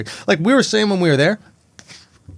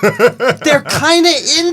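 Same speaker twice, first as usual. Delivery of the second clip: higher, slow, laughing hedge; 9 semitones higher, slower than usual. Real, not acted. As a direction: say it laughing, unsure. Laughing hesitant joke.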